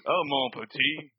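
slow mock Cajun accent; terrible Cajun accent. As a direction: ham up a bad Cajun accent. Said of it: "his terrible Cajun accent".

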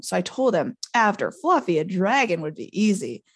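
lightly voiced tipsy-memory recollection, lively and rambling; chatty groundskeeper piecing together a hazy night; rambling Hagrid. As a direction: recall it piece by piece, a touch proud. Voices Hagrid recalling a chat.

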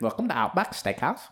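put-on Australian announcement; playful Aussie twang; Australian accent. Shown as a demonstration. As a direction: greet diners in a mock Australian accent. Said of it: "give us your best Australian".

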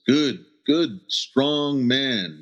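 put-on high, proud Hopi English accent; broken Hopi English accent. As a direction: imitate grandfather's broken Hopi English praise. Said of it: "in a broken Hopi English accent".

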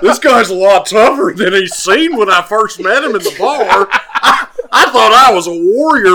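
bursting into laughter mid-fight; laughing loudly. Acted. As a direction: laugh your way through it, half shouting.

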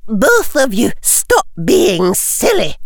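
firm, slow Scottish teacher; stern Scottish schoolmistress; firm Scottish accent. A narrator's reading. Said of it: "in her firm Scottish accent".

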